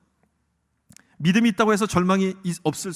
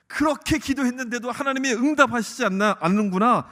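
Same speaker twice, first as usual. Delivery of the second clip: higher-pitched, mildly frustrated doubt; doubting complaint; 5 semitones higher, 4 dB louder than usual. Acted. Believer whose prayer went unanswered, doubting complaint.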